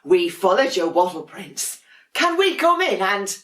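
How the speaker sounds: very high, sing-song little voices; sweet sibling penguins. Acted. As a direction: coo it like cuddly little penguins. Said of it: "said his brothers and sisters".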